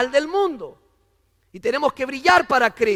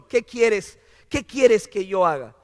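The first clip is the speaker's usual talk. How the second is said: mildly emphatic, full-voiced question; firm surrender; 4 dB louder than usual. Preacher voicing Saulo offering himself, firm. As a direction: ask it out firmly, ready to obey. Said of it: "le está diciendo".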